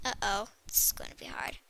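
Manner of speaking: tense whispered worry. Real, not acted. Player nervous about a hard climb, whispering. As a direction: whisper it under your breath, nervous.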